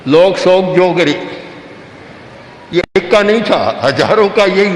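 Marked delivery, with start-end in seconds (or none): 0.1-1.2 "लोग सोग जोगरे" run together loosely; slurred old recitation. Shown as a demonstration. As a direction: mumble the syllables together. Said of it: "बस ये उच्चारण था".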